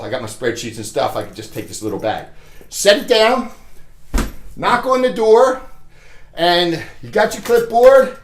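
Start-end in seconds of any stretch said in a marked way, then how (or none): 2.7-8.2 slightly winded while talking; out of breath. Real, not acted. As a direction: talk a little short of breath. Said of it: "I'm running out of breath".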